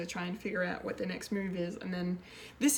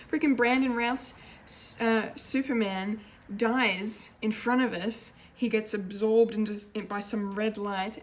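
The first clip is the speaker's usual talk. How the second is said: louder and higher, slowing on the shock; fan outrage; 3 semitones higher, 6 dB louder than usual. Real, not acted. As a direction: fan reporting a favourite hero's death, loud and high. Excited recap of the episode.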